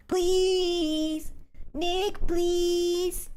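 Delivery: very high, slow chipmunk voice. Acted. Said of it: "Can we do the Chipmunk voice?".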